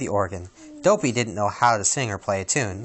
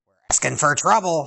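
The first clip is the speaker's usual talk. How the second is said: huffing grumpy; 5 semitones higher than usual. Acted. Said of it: "huffed Grumpy".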